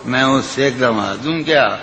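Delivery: lilting, sung-through recitation of a ghazal; poetry recitation. Acted. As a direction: recite it like at a mushaira. Recites the nazm.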